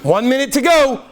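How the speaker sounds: calling out. Retold or imitated. Servants warning the man, calling out. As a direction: announce it with a shout. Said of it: "And they're like".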